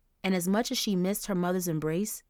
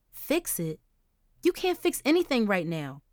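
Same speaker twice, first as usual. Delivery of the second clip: mild yell; 3 semitones higher than usual. Acted. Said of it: "Angel yelled".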